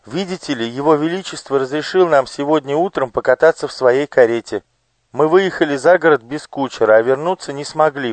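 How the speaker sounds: put-on high, eager boyish voice; young page. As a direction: play a nervous child explaining. Girl Elo voiced. (испуганный мальчик-паж, высоко)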